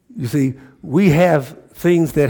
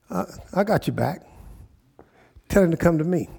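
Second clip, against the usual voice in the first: softer, casual reassurance; reassuring, retold; 3 semitones higher, 4 dB quieter than usual. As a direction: play the prophet calmly offering backup. Voices prophet reassuring the king.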